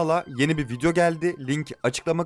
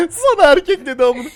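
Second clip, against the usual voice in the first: loud outburst; 10 semitones higher, 10 dB louder than usual. Real, not acted. Laughing outburst.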